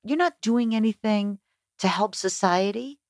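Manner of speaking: a hint of a dad laying down the law; lecturing dad. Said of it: "He goes".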